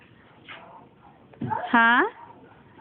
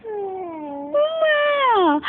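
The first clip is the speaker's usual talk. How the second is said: cat meow; 4 semitones higher than usual. Shown as a demonstration. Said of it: "What is the sound of a cat?".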